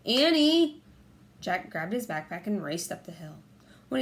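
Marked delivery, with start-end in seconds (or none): 0.1-0.8 loud, higher shout; calling out. A narrator's reading. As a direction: shout her name. Jack calling back.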